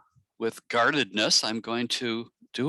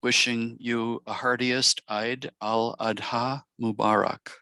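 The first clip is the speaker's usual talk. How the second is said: measured, reflective reading with long pauses between blessings; blessing read aloud. Acted. Meditation guide reading Eid blessings to the circle, reflective blessing. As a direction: offer each blessing and let it settle.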